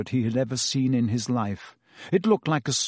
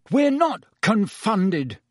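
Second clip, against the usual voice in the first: slow, high, restrained roar; roared denial; 8 semitones higher, 3 dB louder, slower than usual. A narrator's reading. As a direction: deny it hotly, each word drawn out. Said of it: "Harry roared".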